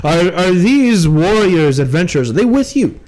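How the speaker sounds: lightly voiced hesitant officer; stumble, then question them as a captain; flustered captain. Captain asks about the other adventurers, flustered.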